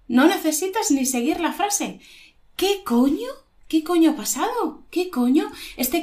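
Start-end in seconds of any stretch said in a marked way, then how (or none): 2.6-5.5 high-pitched baffled question, rising; lost for words. Shown as a demonstration. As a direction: demand what just happened, dumbfounded. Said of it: "Se te apaga el ordenador de repente".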